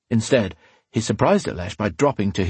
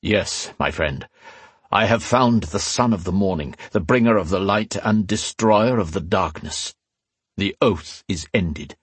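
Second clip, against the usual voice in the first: measured ceremonial voice, lightly put on; reverent desert chief. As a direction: solemnly declare a prophecy fulfilled. Chief's solemn announcement.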